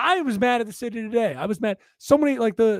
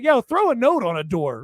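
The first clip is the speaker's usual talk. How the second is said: usual speaking voice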